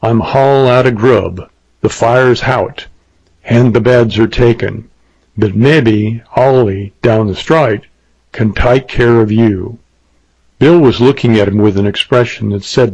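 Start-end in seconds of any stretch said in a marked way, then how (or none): 0.0-9.8 lightly voiced British innkeeper, coolly refusing; a hint of Cockney, with stray aitches. Innkeeper figure with dropped and added aitches.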